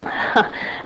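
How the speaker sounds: muffled little sneeze; suppressed sneeze into hand; stifled sneeze. Real, not acted. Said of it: "I'm gonna sneeze".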